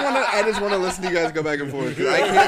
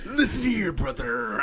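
Macho Man; 3 semitones lower, much slower than usual. Acted. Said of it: "it doesn't sound like Macho Man".

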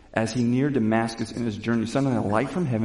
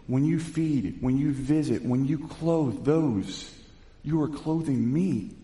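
gentle Jesus; 3 semitones higher, slower than usual. Acted. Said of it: "Jesus said".

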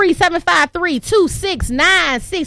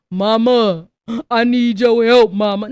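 lower, pleading imitation of a man in trouble; mock whiny plea; 8 semitones lower than usual. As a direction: whine for help to mama. Black man begging for help.

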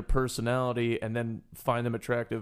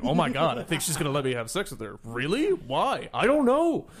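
rising into higher, louder disbelief; playing stunned surprise, building up; surprised; 3 semitones higher, 4 dB louder than usual. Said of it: "it's more just surprise".

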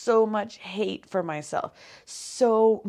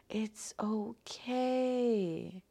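whisper; 2 semitones higher, 8 dB quieter, much slower than usual. Real, not acted. Soothing herself after affirmations.

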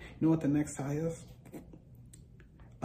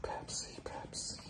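unvoiced, softer whispered Pepsi; 4 dB quieter than usual. Real, not acted. Musing on the soda, a whispered Pepsi chant. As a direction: breathe the name out. Whispering the brand name repeatedly.

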